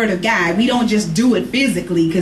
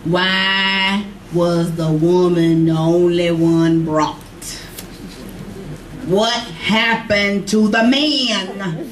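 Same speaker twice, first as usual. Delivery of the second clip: slow, drawn-out puzzled asking; lightly voiced church ladies wondering aloud; curious women asking; 2 semitones lower, much slower than usual. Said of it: "they all had the same question".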